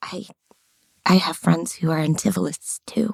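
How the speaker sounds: very quiet murmur, barely above silence. Playing a character who knocks on a closed door and speaks through it, very quietly. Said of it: "I say very quietly".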